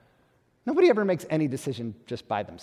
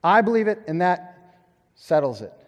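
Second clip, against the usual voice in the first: emphatic creed; 3 semitones higher, 4 dB louder than usual. Retold or imitated. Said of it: "that church and that background".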